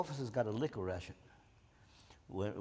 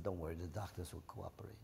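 soft conspiratorial whisper; whispered reassurance; 6 semitones lower, 9 dB quieter than usual. Retold or imitated. Nurse quietly assures the soldier, hushed whisper. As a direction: let her in on the secret under your breath. Nurse confides the plan to him.

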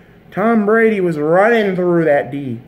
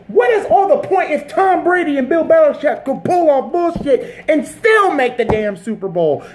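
higher, heated outburst at the Patriots; angry rant; 5 semitones higher than usual. Real, not acted. Fan ranting at Brady and Belichick, angry raised voice. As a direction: vent the fury, voice climbing.

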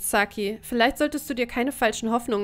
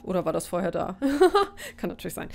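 giggling question; amused, laughing doubt; 3 semitones lower, faster than usual. Real, not acted. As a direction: laugh at your own mix-up. Laughing at own mistake.

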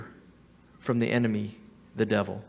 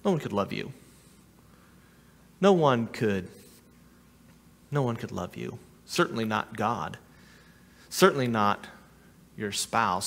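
low, quiet, taunting voice of the enemy; soft, cold put-down; voice of the lies; 7 semitones lower, 5 dB quieter than usual. Acted. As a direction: murmur the lies like a tempter in the ear. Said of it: "Have you ever heard these lies?".

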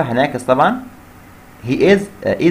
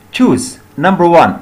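slow reading; 4 semitones higher, 5 dB louder, much slower than usual. Shown as a demonstration. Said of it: "reads the task".

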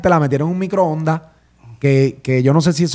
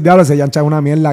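mock crowd insult. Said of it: "lo único que van a decir".

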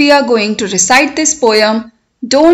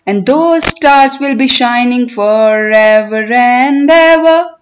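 poem recitation. Shown as a demonstration. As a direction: recite it for learners, stretching the words, lifting line endings. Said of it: "I will recite the poem".

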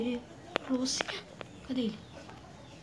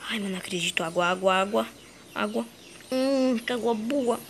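relieved whisper; 3 semitones lower, 5 dB quieter than usual. Acted. Relief at finding water.

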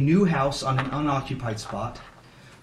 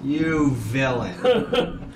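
mock accusation; much slower than usual.

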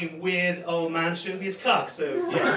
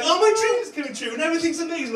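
sarcastic gush; 10 semitones higher, faster than usual. Retold or imitated. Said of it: "leads me to say".

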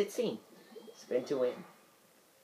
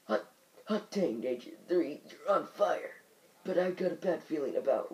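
put-on old man voice; 3 semitones higher than usual. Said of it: "the old man voice".

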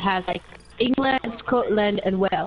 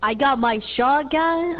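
put-on American country accent; 3 semitones higher than usual. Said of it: "trying to remember how they speak".

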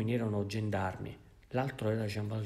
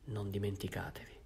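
softer, breath-only whisper; 6 dB quieter than usual. Acted. Bishop privately reminds Jean Valjean of his promise, whispered. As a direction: whisper it close to his ear. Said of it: "gli disse sottovoce".

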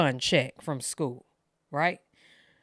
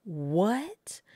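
shocked whisper; 4 dB quieter than usual. Retold or imitated. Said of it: "I was just like".

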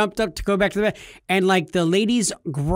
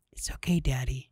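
whispered reassurance; soft child's comfort; 3 semitones lower, 7 dB quieter than usual. Retold or imitated. Six-year-old daughter soothing her scared dad, whispered. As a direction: breathe it gently like a small kid. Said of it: "legitimately says".

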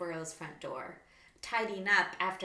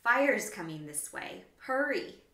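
urgent cry; 2 semitones higher, 6 dB louder than usual. Acted. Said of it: "She cried".

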